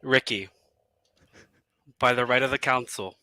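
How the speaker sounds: solemn regal knighting. Pretend. Knighting ceremony on stream.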